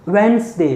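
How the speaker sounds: teacher modelling वेडनेसडे with a z; model pronunciation. Shown as a demonstration. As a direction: say वेडनेसडे with a z, not s. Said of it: "स, आपको स सुनेगा".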